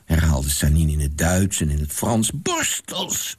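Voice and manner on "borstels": repeating. A narrator's reading. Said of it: "zei hij nog eens".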